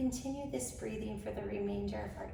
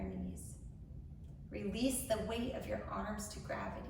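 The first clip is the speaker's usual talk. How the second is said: measured meditation voice with long pauses; guided meditation. Acted. Host leading incarcerated women into grounding, measured guided meditation. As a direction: guide them gently, phrase by phrase.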